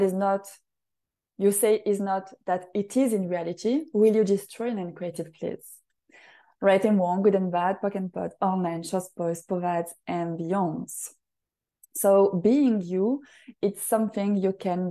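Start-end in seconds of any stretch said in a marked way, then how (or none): 3.9-11.1 rapid ritual recitation. Acted. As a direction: rattle off the clearing statement like a practised incantation. Recites ritual clearing statement.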